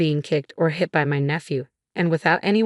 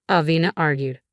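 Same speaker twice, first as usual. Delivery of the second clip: ordinary delivery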